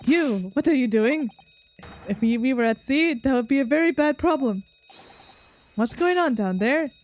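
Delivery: a hint of a bellowing ship's crewman; burly sailor. Voices the burly Russian sailor.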